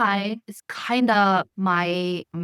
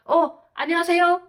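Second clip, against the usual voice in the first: mock polite greeting; 8 semitones higher, much faster than usual. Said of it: "So I'm like".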